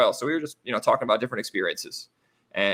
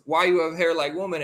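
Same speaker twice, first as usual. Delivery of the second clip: higher mock Russian-accented English; broken English; 4 semitones higher than usual. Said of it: "in pretty broken English".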